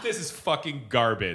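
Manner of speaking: mock British judge's verdict; low-key British-accented put-down. Playing a mean British judge, British accent. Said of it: "speak with a British accent".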